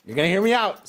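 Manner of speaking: high, loud cartoonish insistence; exaggerated cartoon intonation. Real, not acted. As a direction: ham it up like a cartoon. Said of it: "I just sound like a rabid cartoon character".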